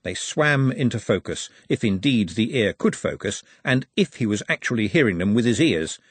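usual speaking voice

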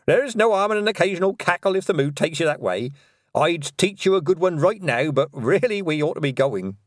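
put-on high, cheerful old witch; jolly old witch. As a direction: chuckle through it. Nanny Ogg voice.

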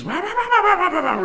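high wailing cat noises. Retold or imitated. Man imitating his cat crying at the door, high wails. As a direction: wail like a cat outside the door.

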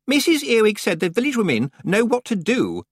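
put-on high hopeful girl's voice; hopeful young witch. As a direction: offer it eagerly, hoping it helps. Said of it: "said Anagramma hopefully".

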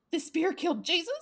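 high, loud, laughing question; laughing mock disbelief. Quoting the heroine about the spear, laughing in disbelief. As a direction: ask it in shocked giggling disbelief. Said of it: "She's like".

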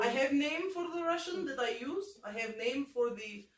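put-on comic Russian character accent. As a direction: speak as a made-up Russian character. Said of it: "this Russian accent".

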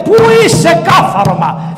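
high, loud yell searching the palace; furious shout. Retold or imitated. Old mother storming the palace for her son, angry yell. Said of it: "φώναζε".

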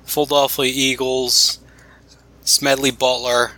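lightly nasal Philly accent demo; a mild Philly accent, showing it off; Philadelphia accent. Shown as a demonstration. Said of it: "kinda say a lot of words like that".

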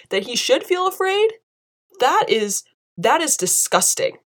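high-pitched outraged disgust; real disgust. Real, not acted. Vlogger condemning the cop's remark, high and disgusted. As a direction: spit out each line in real revulsion. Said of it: "That's how disgusted I am".

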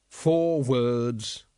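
weary, resigned reading-out. Acted. Vimes guesses at the librarian's charades, wearily. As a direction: wearily play along. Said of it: "he said wearily".

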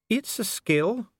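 slow, high, solemn echo. A narrator's reading. Official echoes investigator who can't read runes, solemn. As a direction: echo it with grave precision. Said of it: "said Dee solemnly".

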